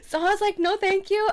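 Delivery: high laughing no thank you. Real, not acted. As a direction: laugh through the polite refusal. Laughing polite refusal.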